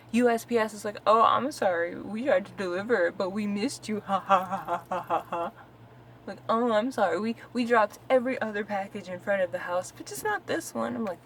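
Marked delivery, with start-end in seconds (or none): 1.1-5.5 sarcastic sorry, ending in a fake laugh; mock the courier's excuse, louder at the start; put-on apology with a taunting ha-ha. Mocks carrier's fake apology. 6.5-10.9 higher, louder sarcastic excuse; put-on sorry, dripping with mockery; mocking fake apology. Mocks carrier's fake apology.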